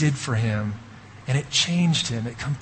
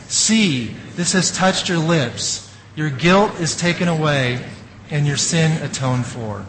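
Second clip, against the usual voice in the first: congregation reading aloud. Shown as a demonstration. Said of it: "I want you to read this with me".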